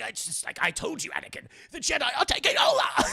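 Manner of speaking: mock wailing. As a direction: wail it in rapid, mock alarm. Mimics Palpatine crying for help.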